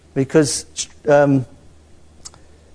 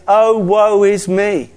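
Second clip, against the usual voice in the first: slow lament; 4 semitones higher, 4 dB louder, much slower than usual. Retold or imitated.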